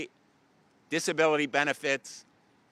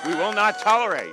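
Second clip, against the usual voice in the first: raised high and loud; shouting; 6 semitones higher, 5 dB louder, faster than usual. Real, not acted. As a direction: hit it harder the second time. Rally speech repeated louder.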